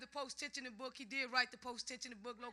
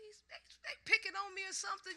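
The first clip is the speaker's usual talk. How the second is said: higher-pitched, plaintive retelling; mock complaint; 7 semitones higher, faster than usual. Learner complaining about speech coaching, mock whiny complaint. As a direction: play up feeling picked on.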